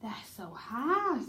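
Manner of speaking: hushed breathy whisper. Shown as a demonstration. Director acting out line in whisper.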